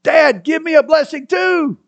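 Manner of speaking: high pleading cry; high pleading son; begging. A narrator's reading. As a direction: beg your father desperately. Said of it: "He begged his father".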